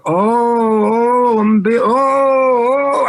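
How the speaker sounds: high, slow flustered oh, oh; hammed-up panicked dithering; flustered mock panic. Mock dithering while chased by tiger.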